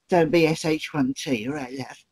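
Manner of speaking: cheeky squeaky good-luck wish with a laugh; imitating Joe Pasquale. The comedian's first-night good luck card, squeaky imitation. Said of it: "he said".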